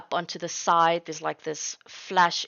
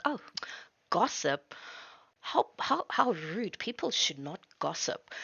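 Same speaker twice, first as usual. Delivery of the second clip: mock disapproval; 4 dB quieter than usual. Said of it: "hoping that you don't notice".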